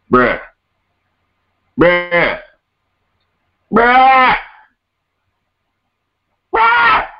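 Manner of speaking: escalating disbelief bruh; rising bruh. Acted. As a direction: climb up with exasperation. Repeated bruh climbing in pitch.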